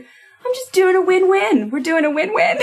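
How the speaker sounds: put-on sweet tiny child voice; teeny baby voice. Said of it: "little teeny baby voice".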